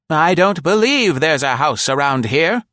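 put-on high, loud old woman, lightly winded; tired from the long walk; lightly breathless elderly lady; panting old lady. A narrator's reading. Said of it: "Nora panted finally".

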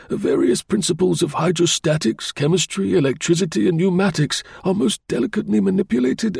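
high, anxious client voice; anxious engineer. Acted. Engineer facing ruin over stolen drawings, anxious high voice. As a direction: plead the case as a worried engineer.

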